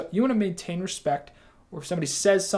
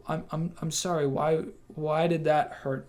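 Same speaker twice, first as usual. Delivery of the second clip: calm apology; slower than usual. Shown as a demonstration. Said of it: "stay focused and stay calm".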